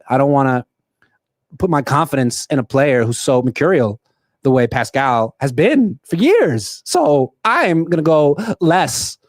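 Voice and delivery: pauses in odd places like a mild Walken take; Christopher Walken impression. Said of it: "I'm gonna do Christopher Walken voice for the rest of my picks".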